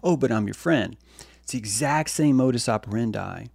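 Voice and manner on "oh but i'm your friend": mock hostile friend. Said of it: "the other person's like".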